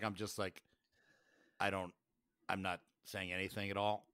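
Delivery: speaking through a covered mouth; hand over mouth. Real, not acted. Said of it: "my mouth is covered".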